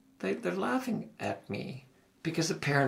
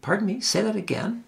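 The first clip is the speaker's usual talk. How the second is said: mock puzzled professor; 8 semitones higher, 3 dB louder than usual. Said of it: "the professor just looked at me and said".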